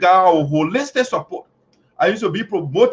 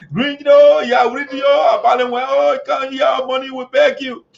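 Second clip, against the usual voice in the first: mock pleading; 5 semitones higher than usual. A hint of elders begging the leader, mock pleading.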